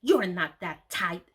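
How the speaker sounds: slow, cold and curt; icy reply. Retold or imitated. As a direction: shut her down with ice. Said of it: "she replied icily".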